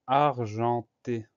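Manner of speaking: "argenté" slowly split into ar, gen, té; syllable by syllable. Shown as a demonstration. Teacher introducing argenté to pupils, syllable by syllable. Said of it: "pour la syllabe ar".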